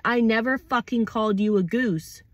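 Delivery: mildly heated acted denial; defensive reaction. Acting out someone provoked into defending themselves, defensive. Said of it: "gonna react in defense of yourself".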